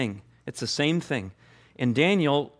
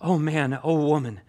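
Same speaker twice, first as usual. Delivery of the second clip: Savior's voice. Acted. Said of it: "hearing that from the Savior himself".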